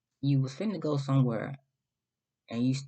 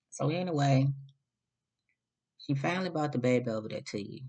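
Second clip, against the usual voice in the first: ordinary talk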